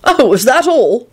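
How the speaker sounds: high, slow sing-song query; pleasant. A narrator's reading. George reacting to the demon news, pleasant. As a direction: lilt it pleasantly. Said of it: "George said pleasantly".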